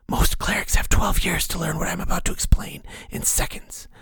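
eerie unvoiced whisper of a hidden mentor; whispering inner voice. The mysterious voice counsels Ank, eerie whisper. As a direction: breathe it like a voice inside his skull.

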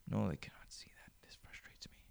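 hushed unvoiced whisper. Whispering to himself that they cannot see it. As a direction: breathe it out, defeated.

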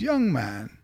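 lightly voiced record executive, a little hushed; a restrained imitation of a music boss; Clive Davis. Record executive addressing a young A and R man, lightly imitated. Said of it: "I can hear his voice when he said it".

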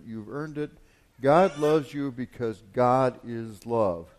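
forceful read sermon; preaching. Acted. Pastor reads a devotional to his congregation, preaching with force.

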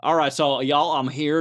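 low, lightly put-on Texas accent; mock Texas accent. Politician stumping in Texas, imitated folksy Texas accent. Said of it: "starts having a Texas accent for no reason".

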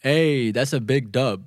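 slow, deliberate lesson reading; slow model read. Shown as a demonstration. Teacher models the reply slowly for learners. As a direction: say "Hey, that's a big dub" very slowly and clearly. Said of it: "พูดตามกันอีกรอบหนึ่งนะครับ".

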